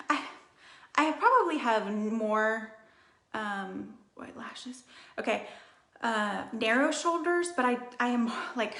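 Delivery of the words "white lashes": a quick hushed aside; whisper. Real, not acted. Confiding to viewers, whispered aside. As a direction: drop to a whisper for the secret. Aside under her breath.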